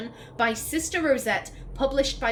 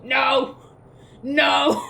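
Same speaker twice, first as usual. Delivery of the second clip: dismayed cry; 3 semitones higher, 7 dB louder than usual. Real, not acted. Reacts in dismay.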